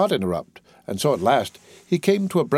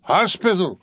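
tipsy surprised exclamation, higher; exclaimed; 7 semitones higher, slower than usual. A narrator's reading. Drunk gent exclaims at Jorgis's hospital news, high and surprised. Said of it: "exclaimed the young fellow".

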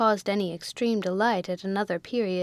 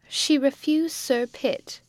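cried out; 5 semitones higher, slower than usual. A narrator's reading. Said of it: "cried the victim".

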